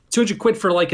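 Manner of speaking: high, loud "two hundred quid"; outraged disbelief. Real, not acted. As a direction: spit out the price in disbelief. Outraged at price.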